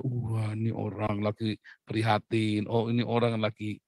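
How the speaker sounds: low, slow murmur of mock concern; mock sympathetic awe. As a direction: imitate impressed onlookers, low and drawn out. Mimics onlookers impressed by piety. (pura-pura kagum dan prihatin)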